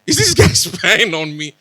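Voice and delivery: high, mock-suspicious disbelief with a laugh; retold wondering. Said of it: "And I'm, and I'm wondering".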